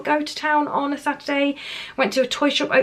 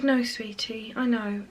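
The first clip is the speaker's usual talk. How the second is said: softer, gentle consoling; tender comfort; 7 dB quieter, slower than usual. Retold or imitated. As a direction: hold her hurt gently. Mum comforting daughter in playground.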